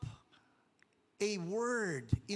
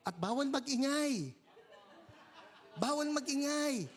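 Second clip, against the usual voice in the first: laughing; 4 semitones higher than usual. Real, not acted. Laughing about the noise rule.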